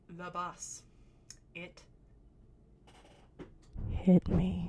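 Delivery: building to a loud cry on "hit me"; insistent outburst. Retold or imitated. Stoned girl insisting to laughing friends, ending in a loud cry. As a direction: start low, then blurt "hit me" out loud.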